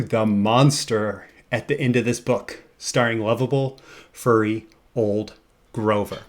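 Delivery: slow, grand reveal of the title; dramatic title reveal. Pretend. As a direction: present the title like a magic trick. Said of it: "levitate into the screen".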